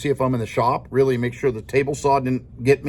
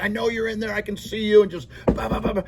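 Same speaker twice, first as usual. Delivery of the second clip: lightly voiced, higher-pitched insistent student; imitating pestering student; 6 semitones higher than usual. Student banging on teacher's door, mock pestering. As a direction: mimic a kid who keeps banging.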